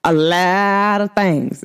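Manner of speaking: country voice. Shown as a demonstration. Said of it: "my country voice".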